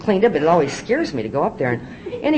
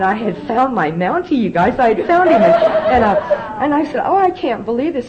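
near tears; 6 semitones higher, 5 dB louder than usual. Real, not acted. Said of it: "I was sitting there sobbing practically".

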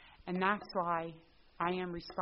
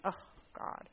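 breathy, much softer groan of dismay; mock dismay; 6 dB quieter than usual. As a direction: sink inwardly at the thought. Inner dismay.

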